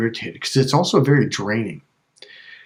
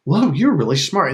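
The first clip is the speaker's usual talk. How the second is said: higher, admiring whoa; mock impressed whoa; 5 semitones higher, 3 dB louder than usual. Mismatcher complimenting you, mock admiring. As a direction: sound pleasantly struck.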